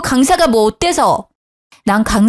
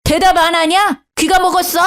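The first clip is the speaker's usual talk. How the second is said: mother-in-law shouting; 7 semitones higher than usual. Retold or imitated. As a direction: bark it up high like a furious mother-in-law. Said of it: "시엄마는 소리를 지르더라고요".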